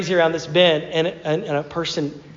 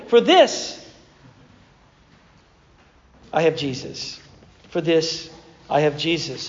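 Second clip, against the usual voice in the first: mantra; 2 semitones lower than usual. Retold or imitated. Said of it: "It was a mantra for his life".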